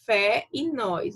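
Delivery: slow, careful "fé e nós"; slow example words. Shown as a demonstration. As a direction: read the examples out slowly for the class. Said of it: "Aí nós temos aqui o exemplo".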